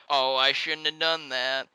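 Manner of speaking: slow, lightly put-on girl voice; a hint of a regretful little girl; mock girl voice. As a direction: drawl it out like a dopey kid. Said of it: "she's like".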